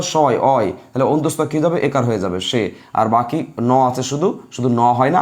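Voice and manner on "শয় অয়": "শয়" followed by a separate falling "অয়"; sounded-out syllables. Shown as a demonstration. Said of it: "শয়ের উচ্চারণ দাও".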